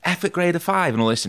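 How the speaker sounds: imitating a dad fuming over a bad report; retold angry dad. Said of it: "he was going mad about it".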